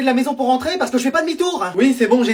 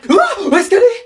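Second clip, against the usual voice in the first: high laughing question; laughing in disbelief at the empty seat; 10 semitones higher, faster than usual. Acted. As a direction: laugh through the question, pitched up.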